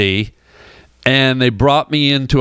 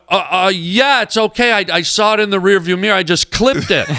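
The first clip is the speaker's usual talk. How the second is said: retold flustered stammer, pitched up; off his game; 5 semitones higher than usual. Comedian backpedalling to the upset producer, flustered. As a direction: stumble into a hasty reassurance. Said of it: "now I'm off my game".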